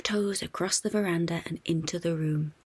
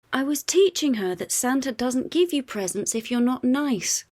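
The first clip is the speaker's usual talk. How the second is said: declaring; 7 semitones higher, 4 dB louder than usual. A narrator's reading. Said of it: "declares Bluey".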